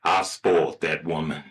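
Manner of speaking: a touch of smug fatherly pride; proud father. Acted. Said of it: "starts beaming real proud".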